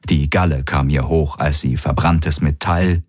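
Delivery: ordinary delivery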